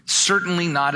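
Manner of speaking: CERTAINLY NOT said with firm emphasis; emphatic. Retold or imitated. Preacher repeating Paul's answer to the congregation, emphatic. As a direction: lean firmly on both words of "Certainly not". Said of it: "it's emphatic".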